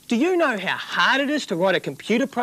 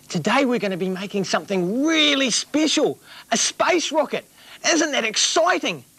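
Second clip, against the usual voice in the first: put-on kids' show host. Children's TV host.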